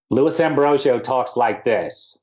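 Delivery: big over-the-top Brooklyn voice; Lewis Ambrosio. Retold or imitated. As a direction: imitate a theatrical Brooklyn agent, slowly. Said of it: "very demonstrative and very over the top".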